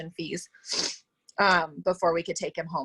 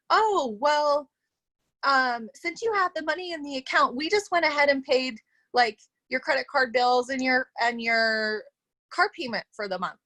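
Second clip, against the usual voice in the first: lightly voiced chipper bank clerk, a touch higher; mock bank clerk; 4 semitones higher than usual. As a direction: play the breezy clerk who sees no problem. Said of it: "they're like".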